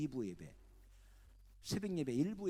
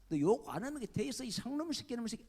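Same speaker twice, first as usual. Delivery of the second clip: a louder, higher mock tirade; acted angry cursing; 4 semitones higher, 4 dB louder than usual. Rival pastor cursing the preacher over the phone, mock anger. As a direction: scold like a furious rival pastor.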